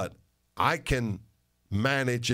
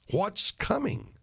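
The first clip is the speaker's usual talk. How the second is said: rhetorical echo; 10 semitones higher, slower than usual. Acted.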